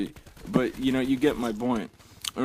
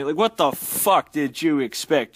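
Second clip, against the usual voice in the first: exasperated; 3 semitones higher, 4 dB louder, slower than usual. Real, not acted. Ranting at the poster.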